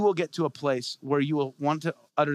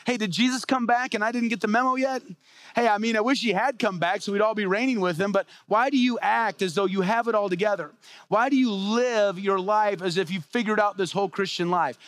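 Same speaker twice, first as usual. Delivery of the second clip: sarcastic, high-pitched challenge; Paul; 6 semitones higher than usual. Acted. Paul to Corinthians acting like kings, sarcastic rebuke. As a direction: needle them with mock-puzzled questions, voice pitched up. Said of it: "he's totally being sarcastic here".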